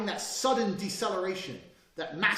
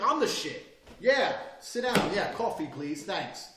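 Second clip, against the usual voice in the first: swaggering boss; 3 semitones higher, 3 dB louder, slower than usual. Pretend. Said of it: "You walk in like".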